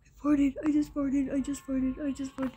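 unvoiced whispered confession. Real, not acted. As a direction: whisper it sheepishly.

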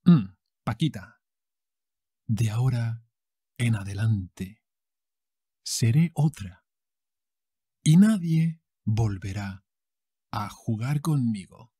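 dramatic soap opera vow; telenovela heroine. Acted. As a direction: swear it like a heroine. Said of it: "Maria calls her sister and she says".

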